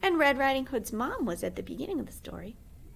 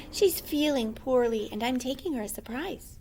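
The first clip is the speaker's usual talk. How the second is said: put-on a slightly raised girlish voice; light little girl voice; 4 semitones higher than usual. Red Riding Hood speaks.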